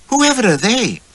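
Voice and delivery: put-on high, haughty young lady's voice; snobbish wife. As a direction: sniff at unknown people, pitched high.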